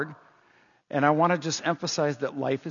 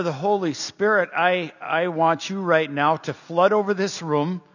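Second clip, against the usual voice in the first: prayer; 3 semitones lower than usual. Real, not acted. Pastor thanking Jesus and inviting the Spirit, prayerful. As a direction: pray aloud, lingering on phrases.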